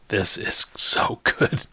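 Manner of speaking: slow, whispery aside from the bushes; slow, hushed delight; lightly voiced character. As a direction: say it slowly, half whispered. Game master voices character in bushes.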